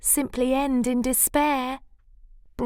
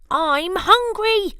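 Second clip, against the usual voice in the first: much higher, louder, slow cry; high desperate cry; 11 semitones higher, 6 dB louder than usual. Acted. Cyril crying out his hunger to Bruce. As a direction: wail it out hungry. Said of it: "cried Cyril".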